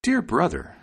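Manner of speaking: high-pitched little bird character; high sparrow asking with concern. A narrator's reading. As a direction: ask in a high, lilting bird voice. Sparrow comforting the dog.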